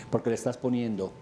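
ordinary talk, nothing marked

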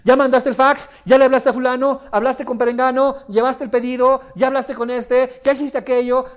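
high, loud breathless rattling; stressed rush. Shown as a demonstration. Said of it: "de la siguiente forma".

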